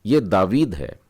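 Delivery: ये दावीद है, weight on दा; stressed long aa. Shown as a demonstration. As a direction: model the stressed दावीद for students. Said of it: "दावीद में आपने इस पर स्ट्रेस दे करके".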